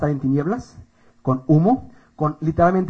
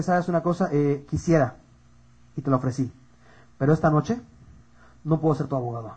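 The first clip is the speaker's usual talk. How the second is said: low, soft, measured sentence; grave Jesus; 5 semitones lower, 5 dB quieter than usual. Acted. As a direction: regretfully deliver judgment, slowing at the end. Jesús responde como juez. (Jesús juez, grave y pausado)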